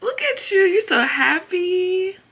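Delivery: high, loud cheering praise. Real, not acted. Cheering baby's success.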